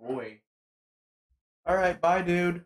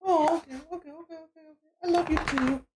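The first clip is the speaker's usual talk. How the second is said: talking to a dog; 14 semitones higher than usual. Real, not acted. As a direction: coo at the dog excitedly. Dog greeting him.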